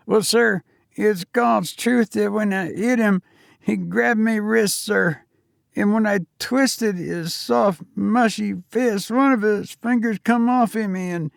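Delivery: put-on a nervous young servant answering his master; young Cockney servant. Thomas tells the horror.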